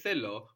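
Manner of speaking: θέλω with the accent on θέ; stress before the ending. Shown as a demonstration. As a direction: stress the first syllable of θέλω. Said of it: "the accent just before the ending".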